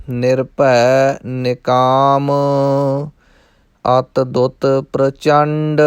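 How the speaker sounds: slow, measured verse chanting; slow recitation. Shown as a demonstration. Teacher chants the verse slowly for the class. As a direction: intone each line slowly and evenly.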